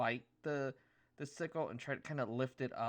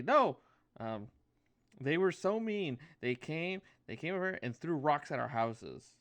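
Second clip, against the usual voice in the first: fairy protest; 4 semitones higher, 8 dB louder than usual. Acted. Fairy protests about the goats.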